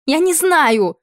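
high, loud despairing shout; desperate cry. A narrator's reading. Queen cries out to the duke shaking her, high desperate shout. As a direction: scream it out in despair. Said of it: "в отчаянии выкрикнула Мария".

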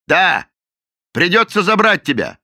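loud high bullying shout; the captain shouts at the cook that he is arresting him; angry shout. A narrator's reading. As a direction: bark the arrest.

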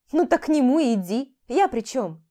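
громко и выше, раздражённо; отрежь её, повысив голос; резко. Acted. Резкий ответ любовнице. (жена раздражённо гонит любовницу, громко)

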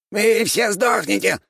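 high slow squeaking rat threat; rat man. A narrator's reading. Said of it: "пропищала крыса".

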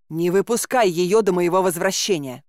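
приказ. Acted. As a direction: give a mildly brusque command. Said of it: "рявкнула замку". (твёрдый, слегка резкий приказ)

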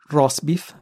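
roast beef said the Italian way, like rosbif; Italian accent. Shown as a demonstration. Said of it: "in Italian accent".

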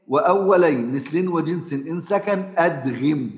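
slow, intoned teaching verse; verse recitation. Shown as a demonstration. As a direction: chant the rule line slowly. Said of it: "فيعمل إيه؟".

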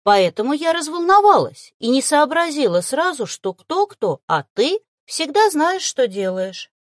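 earnest explanation with apologetic notes. A narrator's reading. Woman soothes Sian by praising him, apologetic. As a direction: placate an offended partner. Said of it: "с извиняющимися нотками в голосе".

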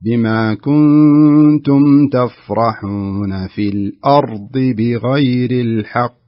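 الأرض مع إمساك الراء; model recitation. Shown as a demonstration. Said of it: "امسك الراء".

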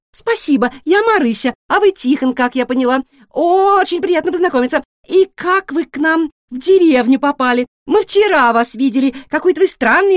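high, loud, rapid-fire questions; a nosy little pig who can't stop asking; chatty guinea pig. A narrator's reading. Guinea pig pestering the new cat with questions.

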